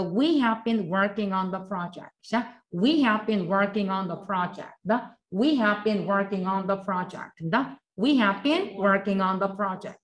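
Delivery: 천천히 한 단어씩 따라 하게 읽기; 학생들이 따라 하도록 또렷하게; 또박또박 시범 낭독. Shown as a demonstration. Teacher models sentence for repetition. (따라 하기용 느린 시범 낭독)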